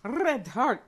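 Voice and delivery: "Red" with a rolled R. Acted. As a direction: trill the R of "Red" in mock German. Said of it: "Germans don't roll their R's".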